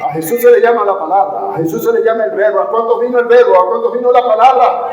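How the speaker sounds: quick, building sermon delivery; fervent preaching. Real, not acted. Preacher challenging the congregation about the Word, fervent preaching.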